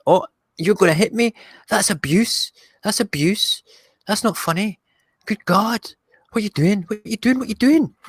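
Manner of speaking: high, indignant cartoon robot; squeaky robot voiceover. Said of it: "the voiceover by me".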